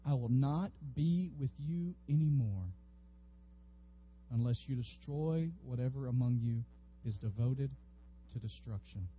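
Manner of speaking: low, soft, grave words of God; solemn warning. Retold or imitated. God warning Israel, in a low grave voice. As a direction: let it sink in heavily. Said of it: "one of the most frightening phrases".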